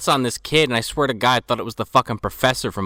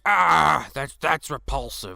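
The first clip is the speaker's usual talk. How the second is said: mock Scottish girl; 3 semitones higher, slower than usual. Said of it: "And she's like".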